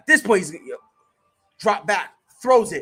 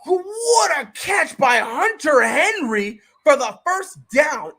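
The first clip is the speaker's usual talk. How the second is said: excited call; 4 semitones higher, 5 dB louder, slower than usual. Real, not acted. Calling the play.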